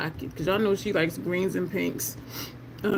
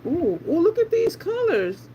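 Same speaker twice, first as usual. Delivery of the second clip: amazed ooh; 9 semitones higher than usual. Real, not acted. Amazed at colour shift.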